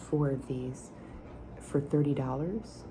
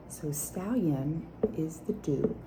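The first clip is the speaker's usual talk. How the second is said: whisper with nail taps; 2 semitones higher than usual. Acted. ASMR whispered perfume review.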